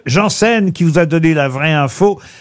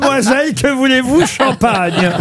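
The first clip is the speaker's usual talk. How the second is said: high, sugary steward voice; hammed-up cabin crew offering champagne; flight attendant; 7 semitones higher than usual. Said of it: "Comment vous feriez le steward".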